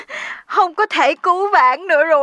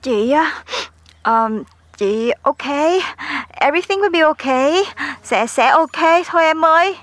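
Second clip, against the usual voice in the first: strange-sounding voice. Acted. Duyên on the phone to worried friends, sounding oddly unlike herself. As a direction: falter while insisting you are okay. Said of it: "sao giọng chị hôm nay nghe lạ thế".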